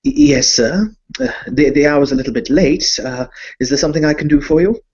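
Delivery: a hint of a timid bank clerk; nervous servant. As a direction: stammer like a flustered doorman. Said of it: "a smallish man in a kind of a white powdered wig".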